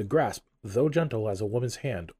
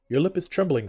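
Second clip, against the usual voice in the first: echoing ethereal energy being; 7 semitones higher, 6 dB louder than usual. Acted. The ghost observes Scrooge.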